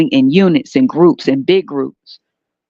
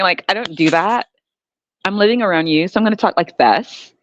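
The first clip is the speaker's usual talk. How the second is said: mock white-American accent; code-switched white talk. Denying her blackness to fit in, mock white accent. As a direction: satirical put-on white-people speech. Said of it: "This is what you're expected to act like".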